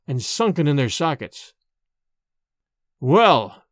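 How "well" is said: put-on lightly hollowed old man's voice; a hollow, weighty single word. A narrator's reading. Returning father greeting his silent family, somewhat hollow. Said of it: "he said in a hollow voice".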